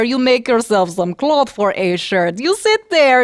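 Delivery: loud, cackling witch voice; bossy witch. Acted. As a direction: order her about with relish. Baba Yaga commands the girl.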